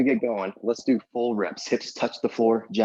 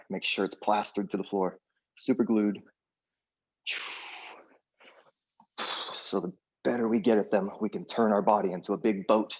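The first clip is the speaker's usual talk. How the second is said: trembling voice, holding through effort; shaky voice. Real, not acted. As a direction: voice shaking from the strain. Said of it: "You might hear my voice shaking".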